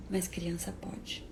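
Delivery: bitter ironic whisper. Real, not acted. To the audience about children: bitter whisper. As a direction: breathe it out as a sour aside.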